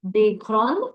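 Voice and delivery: "des grands" with silent final consonants; unchanged plural pronunciation. Shown as a demonstration. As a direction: say "des grands" just like singular "grand", no s heard. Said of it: "pronunciation does not change".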